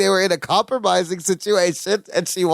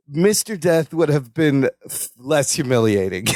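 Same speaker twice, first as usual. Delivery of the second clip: mock weary admission, sinking lower; sighing, resigned; 4 semitones lower than usual. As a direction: let the voice sag as if after a sigh. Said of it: "Larry sighs and he goes".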